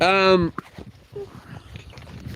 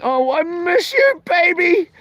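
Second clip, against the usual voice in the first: mushy love message; 5 semitones higher than usual. Retold or imitated. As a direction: coo it like a sappy text to your sweetheart. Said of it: "messaging my love this morning saying".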